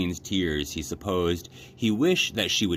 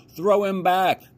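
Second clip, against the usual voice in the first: put-on high, loud, slow boy's call; 13 semitones higher, 5 dB louder, slower than usual. A narrator's reading. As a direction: shout across the deck to your brother. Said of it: "called Martin".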